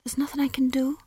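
high, thin whispered plea; faint, high voice of a departed soul; whispery question. Acted. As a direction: ask it in a high, airy whisper. Dead wizard asks Death.

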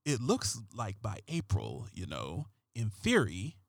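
hushed, low detective read, slowed at the start; lightly voiced brooding TV cop; David Caruso voice. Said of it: "I'm gonna use a David Caruso voice".

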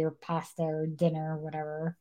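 breathy whisper for the juicy detail; scandalized whisper. Real, not acted. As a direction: hush it like a secret. Hushed scandalous aside.

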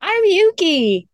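high, loud, slow excited Muppet. Shown as a demonstration. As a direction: shout it like a Muppet character. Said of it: "that sounded like a, like a Muppet".

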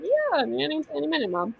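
high-pitched put-on "yeah, sure"; mock placating reply. Daughter putting off her mom's request for help, mock placating. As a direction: lift the voice way up, fobbing someone off.

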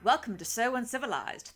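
"Welcome to So Uncivilized" in a lightly formal Obi-Wan voice. Acted. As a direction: greet them as a stiff, uptight Jedi host. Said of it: "I'm going to use that voice".

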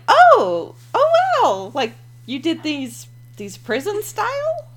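high, slow amazed voice; gushing with mock surprise. Retelling her reaction to the tattoo man, mock amazed.

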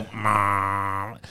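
imitated noise. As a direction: imitate the noise with one drawn-out sound. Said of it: "They make, like, a noise".

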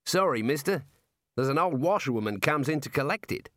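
chatty Aussie warder; warder with Australian accent. Acted. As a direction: play an easygoing Australian prison guard.

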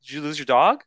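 fast, faux-naive questioning; feigning ignorance in training, fast and clueless; mock clueless. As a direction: play totally clueless. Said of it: "just sit there and be like".

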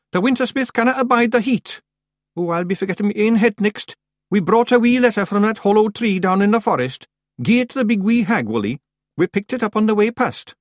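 high, loud little Scots warrior, businesslike; feisty Scottish clansman. A narrator's reading. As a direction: rattle off news as a tiny Scottish chief. Rob Anybody voiced in narration.

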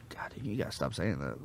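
mock scolding friend. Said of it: "and I go".

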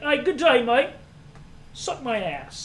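hammed-up Aussie impression; exaggerated Australian accent. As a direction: overdo a mock Australian greeting. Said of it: "over exaggerate".

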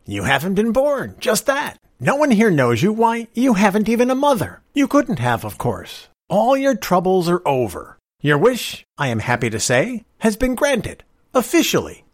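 bubbling over with glee; excited. A narrator's reading. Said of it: "glowed with excitement".

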